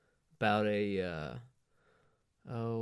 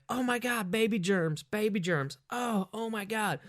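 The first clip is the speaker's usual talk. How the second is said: shrill high mock panic over baby germs, much higher pitch; hysterical lady; 10 semitones higher than usual. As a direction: ham up a woman freaking out about germs. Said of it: "she's like".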